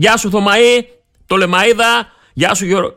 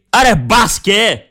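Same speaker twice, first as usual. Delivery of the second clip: inner voice; much slower than usual. Retold or imitated. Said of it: "ακούω μια φωνούλα να λέει".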